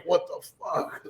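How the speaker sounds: breathy whispered disbelief under your breath; soft, slow, hushed what-the-hell; imitating a muttered whisper. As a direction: whisper it so the big guy won't hear. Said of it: "and you're like".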